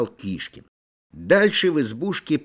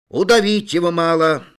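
higher and louder, a fierce verdict; loud declaration; 5 semitones higher, 6 dB louder than usual. A narrator's reading. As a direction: bark out the sentence. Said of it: "заявил со своей стороны Тарас".

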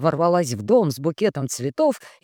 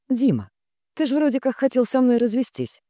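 tentative, higher, a little unsure; hesitant; 9 semitones higher than usual. A narrator's reading. Wife hesitantly raising divorce with husband, tentative and higher. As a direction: start carefully, as if unsure. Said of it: "нерешительно начала я".

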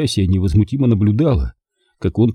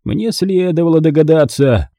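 raised, pointed remark; exasperated uncle to his sister; scornful realisation; 7 semitones higher, 3 dB louder than usual. A narrator's reading. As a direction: say it with pitched-up disdain.

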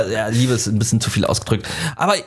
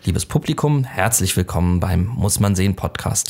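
Podcast-Begrüßung in Aufnahmestimme; 5 semitones lower than usual. Shown as a demonstration. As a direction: greet the audience in a measured recording voice. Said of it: "das sollte meine Aufnahmestimme sein". (Aufnahmestimme für die Podcast-Begrüßung)

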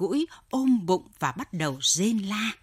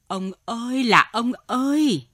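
wife's higher-pitched cry of distress; tearful wail; 5 semitones higher, 4 dB louder than usual. A narrator's reading. Wife at the cage calling to her writhing husband, tearful wail. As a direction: call out in tearful alarm. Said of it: "vừa kịp kêu một tiếng".

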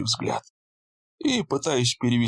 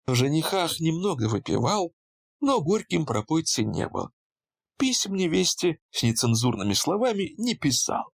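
colourless bored voice; 5 semitones higher than usual. Acted. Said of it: "бесцветным, скучным голосом заявила".

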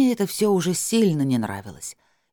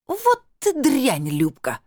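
higher, slow, spat-out insult; drawn-out angry snap, pitched up; furious outburst; 10 semitones higher, much slower than usual. Acted. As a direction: lose her temper at her sister. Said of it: "психанула Тамарка".

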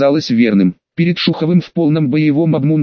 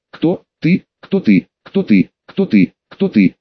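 eerie mimic. A narrator's reading. Darkness mimicking his question.

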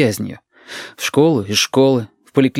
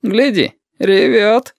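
higher, jeering voice; mocking thug; 10 semitones higher, 3 dB louder, much slower than usual. One thug jeers to the other at Yurik, high and mocking. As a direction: sneer at the crying boy.

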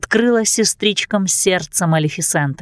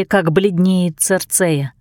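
ordinary delivery, nothing marked

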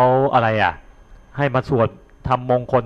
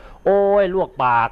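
higher, slower hammed-up ouch; mock pain cry; 7 semitones higher, slower than usual. Shown as a demonstration. Monk demonstrating an unlikely burnt-mouth cry, high mock yelp. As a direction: act out a scalded yelp. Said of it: "มันจะไม่ ไม่เป็นประโยคออกมาหรอกว่า".

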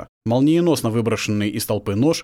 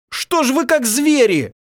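high, loud, slow reproach; furious shout; 5 dB louder, slower than usual. Acted. Prince storms at the captives, high and loud. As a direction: hurl it at them in fury.

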